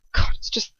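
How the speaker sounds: breathy, choked-up start of words; mild choking grief. Acted. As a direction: force the words past a tight throat. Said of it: "he chokes again".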